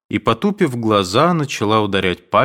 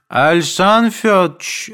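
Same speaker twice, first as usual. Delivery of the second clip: high, loud call from another room; mother calling out; 10 semitones higher, 5 dB louder than usual. A narrator's reading. Mother calls Aduev from her room, loud. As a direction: shout it across the house. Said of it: "закричала вдруг мать".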